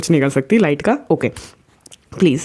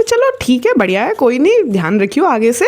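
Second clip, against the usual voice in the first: higher-pitched, easy-going acceptance; okay reaction; 5 semitones higher than usual. Retold or imitated. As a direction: imitate a brother calmly accepting it. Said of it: "मेरे भाई में okay reaction". (सहज, बेफ़िक्र अंदाज़)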